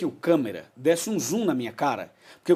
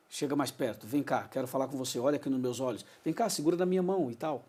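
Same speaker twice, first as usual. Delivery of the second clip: soft, close, inviting tone; softer intimate invitation to the viewer; 2 semitones lower, 7 dB quieter than usual. Shown as a demonstration. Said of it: "que legal isso que você fez".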